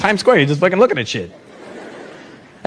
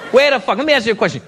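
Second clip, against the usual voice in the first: raised-pitch angry challenge; mock angry demand; 4 semitones higher, faster than usual. Angry Italian questioning the comedian, mock irate. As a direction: demand an answer, acting angry. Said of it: "is when they get angry".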